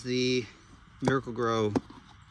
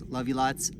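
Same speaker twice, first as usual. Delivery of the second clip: whispered sign-off; 5 dB louder than usual. Real, not acted. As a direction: breathe it out as a fond goodbye. Signing off to viewers.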